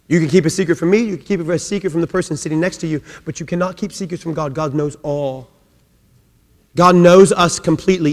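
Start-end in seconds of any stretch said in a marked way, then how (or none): 1.0-5.5 much softer, intimate warning; confiding hush. Acted. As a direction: lean in and tell them quietly. Confiding lower voice.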